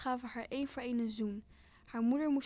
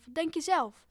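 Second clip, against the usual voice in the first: higher, louder angry retort; raised-voice storybook shout; 5 semitones higher, 8 dB louder than usual. A narrator's reading. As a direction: throw the question out as an angry father. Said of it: "schreeuwde haar vader".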